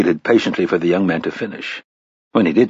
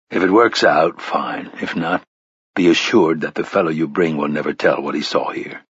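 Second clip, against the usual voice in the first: a lightly lowered, stern gunslinger; low gunslinger voice; 4 semitones lower than usual. Acted. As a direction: speak low and measured. Roland's lines voiced low.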